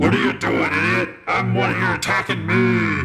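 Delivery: high-pitched crying out in a monster voice. Voicing a blind manticore bitten by an unseen attacker: manticore crying out. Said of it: "it kinda cries out".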